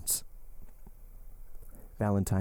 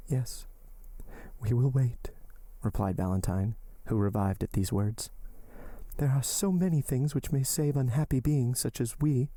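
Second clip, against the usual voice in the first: put-on desperate young woman; 3 semitones higher than usual. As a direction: lift the voice and entreat him. Valentine voiced by narrator.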